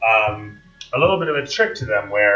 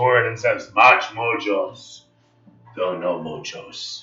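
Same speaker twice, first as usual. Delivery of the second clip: guttural, throaty orc voice, slower; 3 semitones lower than usual. A player voices an orc addressing the others, guttural orc voice. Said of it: "he gutturally states".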